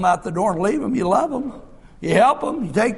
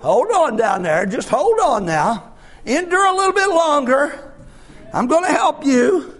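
gentle voice of God; 2 semitones higher than usual. Pretend. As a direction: comfort a suffering child. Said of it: "He's saying".

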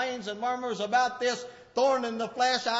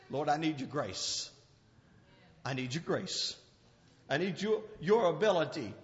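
quiet prayer; 12 semitones lower, 9 dB quieter than usual. Acted. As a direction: lower and much softer, pleading. Preacher praying for grace.

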